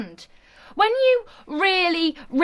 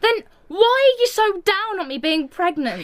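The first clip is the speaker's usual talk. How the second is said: indignant, slightly raised pitch; worked-up protest; heated argument; 3 semitones higher than usual. Acted. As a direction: accuse your best friend, hurt and cross. Heated quarrel between best friends.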